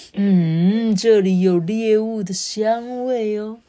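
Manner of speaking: slow, savouring monster voice; greedy toad. Acted. Greedy toad sniffing out the hiding worms, slow and greedy. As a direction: relish the smell of prey.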